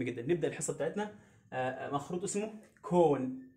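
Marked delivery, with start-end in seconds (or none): 2.8-3.4 كون said as "cone" with a long o; teacher modelling كون with a long o. Shown as a demonstration. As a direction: draw out the o in كون like its letter name. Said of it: "حرف الأو هنا بنطقه باسمه".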